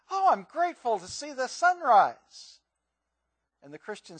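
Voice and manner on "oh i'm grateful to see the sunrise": awed atheist friend. Retold or imitated. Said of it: "the atheist said to her friend".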